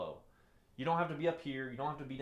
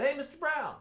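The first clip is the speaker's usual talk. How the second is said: caller's voice; 10 semitones higher, 6 dB louder than usual. Retold or imitated. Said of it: "they called him up and said".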